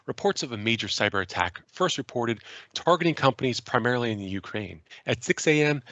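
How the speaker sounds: radio voice. Shown as a demonstration. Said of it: "radio voice for a second here".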